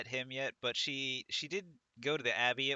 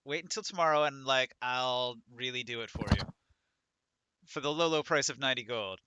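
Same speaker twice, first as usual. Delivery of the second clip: put-on louder, gushing valley girl; a light valley girl lilt; 4 dB louder than usual. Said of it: "him saying, like".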